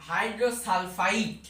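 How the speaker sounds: হাইড্রোসালফাইড spelled out slowly, syllable by syllable; slow demo word. Shown as a demonstration. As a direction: draw out হাইড্রোসালফাইড as a hypothetical form. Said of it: "তাহলে এখানে যদি হতো". (হাইড্রোসালফাইড ধীরে ধীরে উচ্চারণ)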